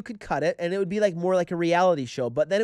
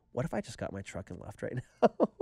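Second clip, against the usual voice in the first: low, breaking into laughter; laughing crazy thought; 5 semitones lower, 7 dB quieter than usual. Retold or imitated. Man confessing his crazy fireside thought, laughing. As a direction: let a laugh break in before the end.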